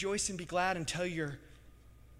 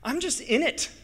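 much higher and louder, slow pleading; anguished prayer; 8 semitones higher, 11 dB louder, slower than usual. Acted. Suffering listener praying, loud slow anguished plea. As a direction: cry out the pain to God, slowly. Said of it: "you're like".

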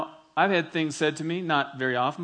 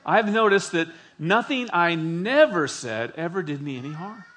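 a slower reread, each word given weight; slowly; 2 semitones higher, 3 dB louder than usual. Shown as a demonstration. Pastor rereads the Coolidge quote to the congregation, slowly. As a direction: take it again slowly so it sinks in. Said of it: "Let's read that again slowly".

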